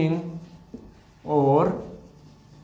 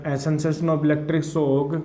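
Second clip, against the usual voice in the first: very slow, each word spaced; slow dictation; much slower than usual. Shown as a demonstration. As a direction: dictate slowly for students to copy. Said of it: "dictating notes slowly".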